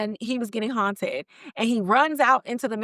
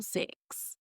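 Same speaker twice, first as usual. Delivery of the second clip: whispered; 14 dB quieter than usual. Retold or imitated. Eerie store announcement whispered.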